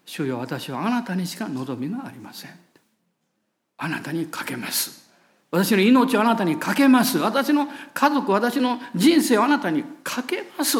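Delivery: fervent prayer. Shown as a demonstration. Believer entrusting life and family to God, in earnest prayer. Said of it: "その時にこう言えるんです".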